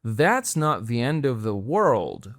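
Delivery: slow, careful That's not the end of the world; slow model sentence. Shown as a demonstration. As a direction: say it slowly for the learner. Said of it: "یه بار دیگه". (آهسته و شمرده)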